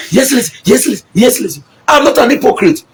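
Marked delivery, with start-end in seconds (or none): 0.1-1.6 higher, rapid-fire mock agreement; quick repeated yeses in a raised voice; imitating yes-men. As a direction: mimic flatterers eagerly agreeing with the boss. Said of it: "when they come, when the governor say".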